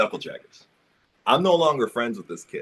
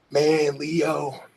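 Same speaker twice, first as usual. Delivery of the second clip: bully's video threat, in a hushed sneering voice; mock thug threat; 4 semitones higher, 4 dB quieter than usual.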